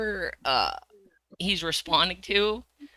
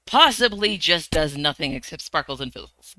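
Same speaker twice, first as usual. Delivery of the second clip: stern nun. Acted. Wizard scolding the girl.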